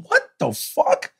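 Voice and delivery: high, drawn-out disbelieving outburst; retold disbelief. Viewer reacting to a cliffhanger, disbelieving. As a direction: stretch it out, pitched high in disbelief. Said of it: "And I'm going".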